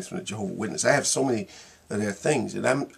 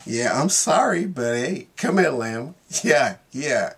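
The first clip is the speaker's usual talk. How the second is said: sorry lion; 2 semitones higher, 3 dB louder, slower than usual. Retold or imitated. Lion answering the girl.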